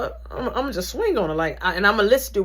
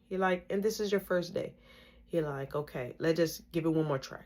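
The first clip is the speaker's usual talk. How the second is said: calm coaching; 3 semitones lower, 6 dB quieter than usual. Retold or imitated. Instructor calming her down.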